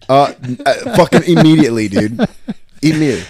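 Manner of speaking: incredulous answer. Acted. Prof answering the absurd question.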